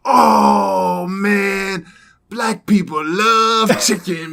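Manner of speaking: put-on high, loud, slow voice of the young guy; loud, slow mock voice of the guy at the counter; imitating the Iraqi guy. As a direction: ham up his excited chicken claim. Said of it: "And he's like".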